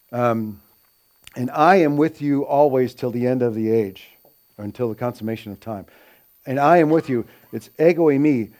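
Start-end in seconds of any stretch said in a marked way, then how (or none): 1.4-4.1 "I" leaned on in a quoted verse; stress on I. Retold or imitated. Teacher quotes the Great Commission to show emphasis, stressed "I". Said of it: "it's putting more emphasis on the person". 6.5-7.3 "I" raised above the rest, then falling; stress on I. Retold or imitated. Teacher repeats the verse to show the pronoun, stressed "I". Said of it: "it's putting more emphasis on the person".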